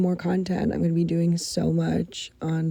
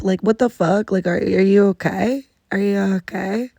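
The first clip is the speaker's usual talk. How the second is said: exasperated; 5 dB louder than usual. Real, not acted. Venting at rude coworkers.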